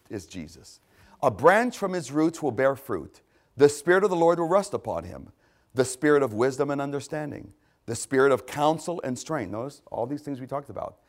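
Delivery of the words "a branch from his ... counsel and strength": raised, deliberate reading voice; measured scripture reading. Real, not acted. Preacher reading a messianic passage, measured and emphatic. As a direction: read each phrase out firmly. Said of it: "I'm gonna read them slowly".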